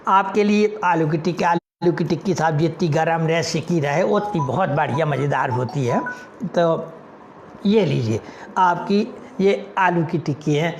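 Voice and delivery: lightly voiced vendor; vendor selling.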